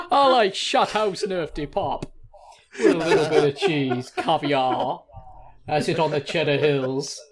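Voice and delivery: hammed-up West Country food-lover; Somerset accent. Shown as a demonstration. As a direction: do a silly Somerset local. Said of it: "that is the accent of anybody Southern".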